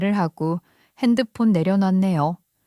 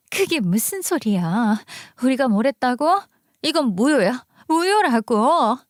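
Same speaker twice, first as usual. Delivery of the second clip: sister-in-law protesting, pitch climbing to the end; indignant protest; 3 semitones higher than usual. Acted. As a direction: object in mounting disbelief. 이혼 사실에 시누이가 항의. (어이없다는 듯 점점 높여 항의)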